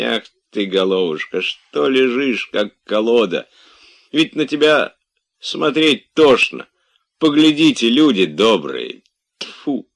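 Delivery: exasperated lament, rising high and loud; despairing. A narrator's reading. Servant despairing over master who dozed off again, exasperated. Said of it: "говорил Захар в отчаянии".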